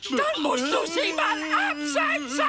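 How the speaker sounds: shouting. Acted. Grobi yelling at the horse wearing headphones. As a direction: shout so he finally hears. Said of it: "Warum schreist du mich denn so an".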